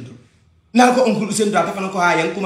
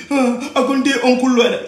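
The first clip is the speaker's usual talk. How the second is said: mocking imitation; 2 semitones higher than usual. Mocking the man who lectures him, a sneering imitation. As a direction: mimic him to make him look silly. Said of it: "Who are you to tell me".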